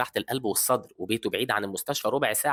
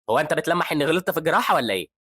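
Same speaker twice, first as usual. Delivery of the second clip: louder, raised challenge; angry accusation; 5 semitones higher, 5 dB louder than usual. A narrator's reading. Surgeon challenging the resident, louder accusing tone. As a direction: demand an answer angrily. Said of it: "بيتعصب هان وبيزعق".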